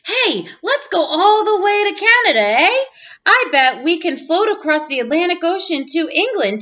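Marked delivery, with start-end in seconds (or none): 0.0-2.8 playful Canadian eh. Acted.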